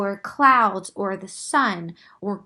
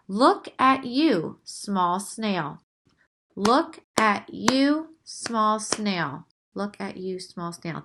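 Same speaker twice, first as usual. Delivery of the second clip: reading a haiku; slower than usual. Shown as a demonstration. Teacher reads the snail haiku aloud. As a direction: read look at you small snail like a poem. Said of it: "let's take a look at this example".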